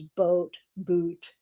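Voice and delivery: light Canadian vowels on "boat, boot"; hint at a Canadian accent in "boat, boot"; Canadian traces. Shown as a demonstration. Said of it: "with Canadian traces".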